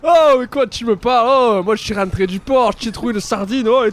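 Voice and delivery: loud, high mock Marseille fisherman; Marseille accent. A friend challenges the AI fisherman, loud Marseille accent. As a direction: belt it out like a boastful Marseille fisherman. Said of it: "Tu prends l'accent marseillais".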